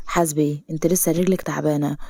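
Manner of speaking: a touch of protective care; gentle caution. Acted. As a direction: warn her quietly. Hero cautions injured heroine.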